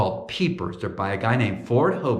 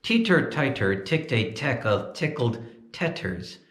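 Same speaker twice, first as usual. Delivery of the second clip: ventriloquist tongue twister. Shown as a demonstration. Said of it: "Here it is".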